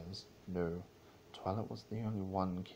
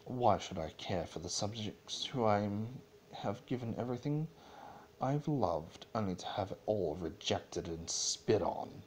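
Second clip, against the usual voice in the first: Celestia's hissed fury. Acted.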